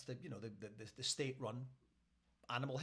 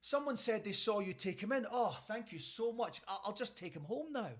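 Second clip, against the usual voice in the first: neighbour; 5 semitones higher than usual. Retold or imitated. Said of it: "The neighbour says".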